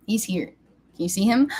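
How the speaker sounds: ordinary talk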